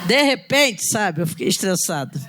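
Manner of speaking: laughing through the retold patient line. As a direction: give the patient line again, breaking into a laugh. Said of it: "Vamos lá".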